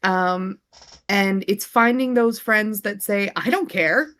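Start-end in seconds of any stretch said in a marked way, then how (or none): 3.3-4.1 eager, rallying cheer, louder in the middle; enthusiastic friend. Acted. Supportive friend saying they will scream along, excited. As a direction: play the game friend who joins in.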